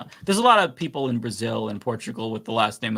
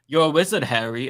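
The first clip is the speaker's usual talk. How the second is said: lightly put-on British accent; 3 semitones higher than usual. Shown as a demonstration. Showing friends the warm-up phrase for a British accent, lightly imitated. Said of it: "reenact a British accent unless I did the whole".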